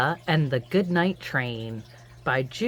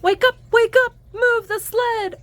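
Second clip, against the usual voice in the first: higher, louder wake-up call, slow at the end; 7 dB louder, slower than usual. Acted. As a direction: rouse sleepy reindeer. Calling to wake everyone.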